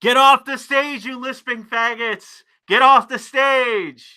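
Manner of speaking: boo them off stage. Real, not acted. Heckling the award show stage.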